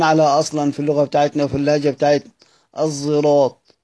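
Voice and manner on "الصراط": الزراط with the sad sound blended into a z, said as "zerat"; sad blended with zay. Shown as a demonstration. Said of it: "إحنا أصلًا بننطق كده الزراط".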